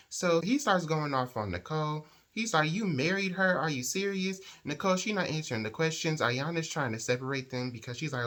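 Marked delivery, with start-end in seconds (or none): 2.7-4.4 high-pitched incredulous questioning; acted outraged disbelief. Man going off on Nicole about the marriage, incredulous. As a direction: confront them in raised pitch, imitating outrage.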